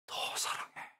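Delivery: unvoiced hush; whisper. Preacher whispering God's final words of love. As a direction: breathe the last words as a secret.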